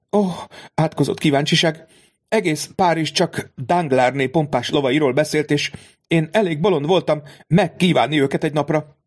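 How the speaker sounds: a lady scolding herself; regretful mother. A narrator's reading.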